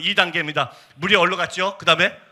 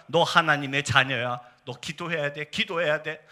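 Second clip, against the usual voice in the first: 타이르는 기도; 3 semitones lower, 3 dB quieter, slower than usual. Retold or imitated. Praying into the afflicted woman's ear.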